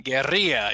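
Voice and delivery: Guerrilla はスペイン語風に「ゲリーア」と短く発音; スペイン語の発音をまねて; Spanish pronunciation. Shown as a demonstration. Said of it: "that's the Spanish pronunciation".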